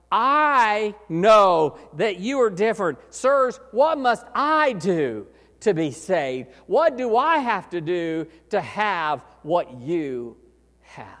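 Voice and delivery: slow, heartfelt plea; slow it down and mean every word; earnest rephrase. Retold or imitated. Preacher voicing the jailer's real meaning, slow earnest plea. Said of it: "that's not the way he said it".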